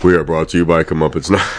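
mock stuffy sick voice; imitating sick voice. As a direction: play up a hammy sick croak. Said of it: "he's making fun of my sick voice".

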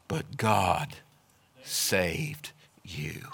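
low, soft whisper of grace; hushed whisper. Acted. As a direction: breathe it out like a secret. Whispered climax of sermon.

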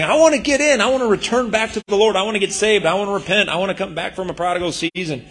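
pleading sinners. Acted. Voicing returning sinners pleading.

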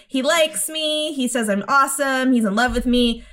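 a touch of dreamy happiness; imitated happy gushing. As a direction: lightly act out her delight. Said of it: "she's so happy about this compliment".

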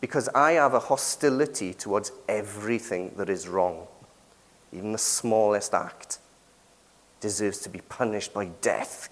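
quiet, calm imagined caller. Pretend. Preacher imagines a caller calmly demanding death for everyone, quiet and even. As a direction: say it coolly and evenly, like it's obvious. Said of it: "If they said calmly".

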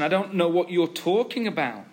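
mildly acted innocent denial; a touch of baffled innocence, voice lifting; playing naive. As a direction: act as if you have no idea. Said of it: "He's playing naive".

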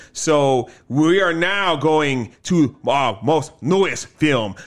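slow dramatic announcer voice; trailer announcer. Acted. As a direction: build it up like a movie trailer.

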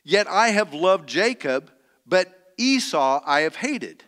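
measured, solemn Bible reading from the pulpit; scripture reading. Acted. Preacher reading Malachi to the congregation, solemn and measured. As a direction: read the prophet's words with weight.

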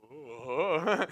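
long, drawn-out whoa of wonder; awed whoa. Retold or imitated. Runner hit by the presence of God, awestruck. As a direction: let the whoa swell slowly in mock awe. Retold awe as God's presence hits.

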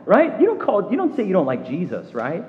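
high, loud mock alarm at a friend; a startled scolding, voice jumping up high; shocked churchgoer. Preacher imitating a churchgoer shocked at someone, high and loud mock alarm. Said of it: "you're like".

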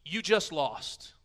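the Lord silencing the nations, loud and triumphant; commanding shout. Acted. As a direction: declare the nations beaten. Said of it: "the Lord coming, saying".

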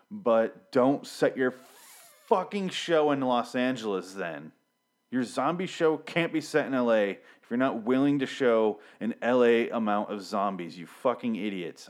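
slow, emphatic angry rant; real anger. Real, not acted. Ranting at the zombie show's makers, slow and angry. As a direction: spit out each word slowly, really fed up. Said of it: "I'm mad".

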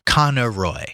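"Conoroy" said slowly as in Dublin; Dublin pronunciation. Shown as a demonstration. Reader showing the Dublin pronunciation, "Conoroy" slowly sounded out. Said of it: "The Dublin pronunciation would be".

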